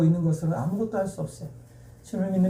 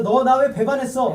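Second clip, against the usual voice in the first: higher, lightly acted accusation; imagine a betrayed master's rebuke, half in earnest; mock reproach; 5 semitones higher than usual. Mock rebuke Jesus never gave.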